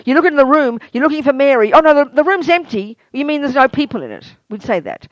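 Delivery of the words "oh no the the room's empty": mild mock dismay. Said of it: "if you're expecting Mary".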